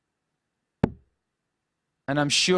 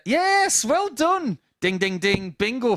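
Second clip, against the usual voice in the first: high, bright cheer of delight; excited cheer; 9 semitones higher, 3 dB louder, slower than usual. Real, not acted. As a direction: celebrate the right answer. Cheering a correct quiz answer.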